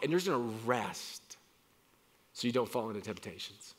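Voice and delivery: tender voice of God tending Elijah; gentle caring God. Retold or imitated. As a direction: comfort a worn-out friend. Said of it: "He's just".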